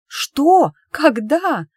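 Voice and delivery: high, loud disbelieving what; shocked cry. Acted. Emma hearing her friend went on a date, high and loud alarm. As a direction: blurt it out in alarm.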